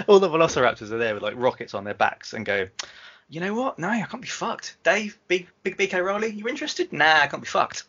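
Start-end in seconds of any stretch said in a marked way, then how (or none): 3.3-7.8 a creature shrugging off the fight; lazy raptor voice. Acted. Velociraptors voiced giving up.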